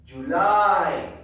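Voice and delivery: loud, emphatic model word; projected classroom prompt; teacher's drill call. Shown as a demonstration. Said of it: "I am going to say".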